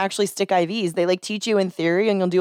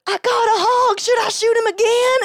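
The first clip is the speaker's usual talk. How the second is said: put-on high, loud little-kid Texan twang; strongest Texan accent; 4 dB louder than usual. Ten-year-old after shooting a first hog, thick Texan accent. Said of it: "going off on just the strongest te-, Texan accent".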